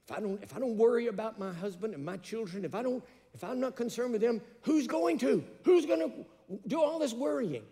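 a worried wife's plea building to a near cry; rising anxious plea. Retold or imitated. Preacher voicing worried wives, building in alarm.

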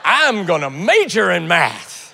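loud, slow, triumphant announcement; big, emphatic burst of enthusiasm; eager declaration. Acted. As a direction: proclaim it like a convert. Student suddenly enthusiastic about math.

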